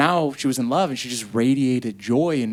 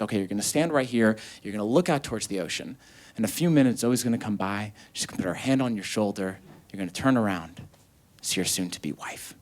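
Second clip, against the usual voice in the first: soothing instructions; 4 semitones lower, 4 dB quieter than usual. Retold or imitated. Photographer setting up the groom's first look, soothing instructions. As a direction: gently guide the groom, voice sinking.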